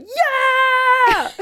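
high, drawn-out squeal of joy; re-enacted delighted whoop; excited cheer. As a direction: cheer as if thrilled by the twist. Listener re-enacts cheering at plot twist.

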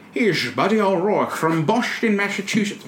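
hammed-up Irish accent for a Boston man; mock Irish introduction. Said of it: "with the Irish accent".

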